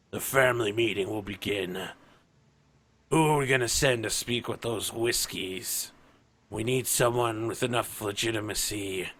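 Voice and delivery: Orefather. Acted. Plays the Orefather opening the meeting.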